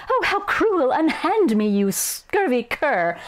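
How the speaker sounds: high, hammed-up storybook princess; haughty melodrama, slowing on the final insult. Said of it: "I don't know, a princess".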